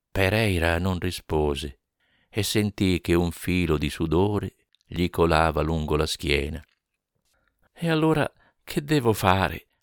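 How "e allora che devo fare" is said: pleading whisper, much higher. Getting no answer from the other man, he asks what to do: pleading whisper. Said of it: "sussurrò Monteiro Rossi con una voce che sembrava implorante".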